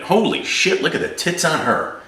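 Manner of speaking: abrupt high-pitched ogling outburst; guys talking. Acted. One guy distracted mid-conversation by a passing woman, excited aside. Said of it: "impression of two guys talking".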